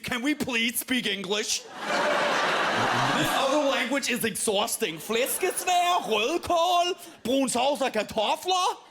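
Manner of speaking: high, loud, shouted foreign words mocking an American; mock American whine. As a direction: belt out the Danish words like a baffled tourist. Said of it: "does she think Danish people".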